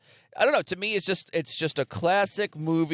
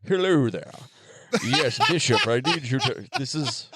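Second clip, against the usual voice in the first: alien chestburster voice; 2 semitones lower than usual. Pretend. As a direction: speak as the little chest alien. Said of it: "that's my alien chestburster voice".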